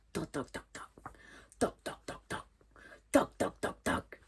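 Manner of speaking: evenly spaced knocks on a door; imitated knocking. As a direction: tap out each word like a knock. Imite les coups à la porte. (imitation de coups à la porte)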